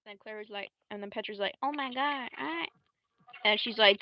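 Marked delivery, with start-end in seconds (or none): 1.6-2.7 high-pitched character voice; lightly acted, higher-pitched gushing; Petra. Petra reacts to Clara, higher-pitched exclamation.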